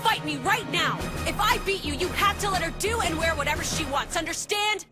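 forceful and worked up; fierce challenge. Acted. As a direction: lay down a heated challenge. Challenging a father to a fight.

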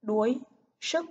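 "Đuối sức" word by word, clear uôi in Đuối; "Đuối sức", separate words, careful uôi rhyme. Shown as a demonstration. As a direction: sound out "Đuối sức" with a full uôi glide. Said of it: "chú ý vần uôi".

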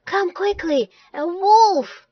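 high, urgent call; high cry to summon help; alarmed shout. Acted. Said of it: "he shouted".

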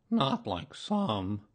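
slow, drawn-out doleful aside; gloomy donkey. A narrator's reading. Donkey comparing bear with other friends, gloomily. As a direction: drag the words out mournfully. Eeyore grumbles about others.

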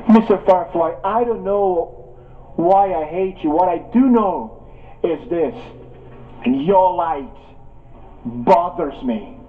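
a cold, unhurried serpent, only lightly voiced; hissing serpent. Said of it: "and hissed".

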